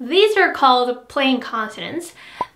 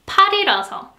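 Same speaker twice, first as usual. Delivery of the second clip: 팔이라서 with the 이 raised high; high pitch after 팔; 6 semitones higher, much faster than usual. Shown as a demonstration. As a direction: lift 팔이라서 up. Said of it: "lower than the second one".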